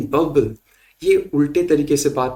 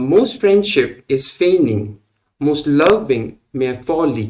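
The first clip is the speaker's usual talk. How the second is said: very slow, "friend" and "lov" stressed between light syllables; da-DUM-da, da-DUM-da; scanned Shakespeare line, slowly; amphibrachic reading; much slower than usual. Shown as a demonstration. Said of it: "most unaccented था".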